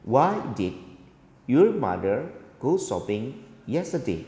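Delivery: "Why did your mother go shopping yesterday?" dropping at the end; falling intonation. Shown as a demonstration. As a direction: let "yesterday" fall, as in a wh-question. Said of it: "Ini intonasinya turun".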